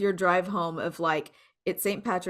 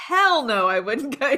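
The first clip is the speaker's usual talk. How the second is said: husband's emphatic refusal, higher and louder; mock refusal; 6 semitones higher, 6 dB louder than usual. Retelling how her husband turned down the cruise, with a mock emphatic no. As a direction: blurt a flat-out no as her husband. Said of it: "He's like".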